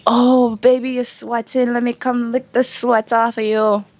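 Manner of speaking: sleazy street catcall, lightly voiced; a hint of a leering man; mock catcaller. Voicing harassing men's catcalls.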